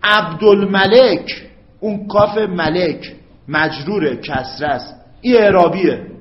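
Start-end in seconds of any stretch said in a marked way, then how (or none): none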